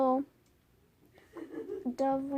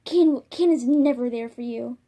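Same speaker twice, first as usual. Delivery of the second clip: a louder, bitter snap of a line; bitter loud retort; 7 dB louder than usual. Acted. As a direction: throw it at her with scorn. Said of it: "Hawk Frost would be like".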